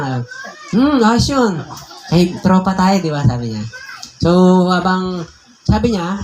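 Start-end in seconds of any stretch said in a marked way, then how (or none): 0.7-3.2 quoting the friend with a chuckle, pitched up; laughing friend. Retold or imitated. Pastor quoting his tattooed friend, chuckling and pitched up. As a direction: laugh through the friend's happy agreement.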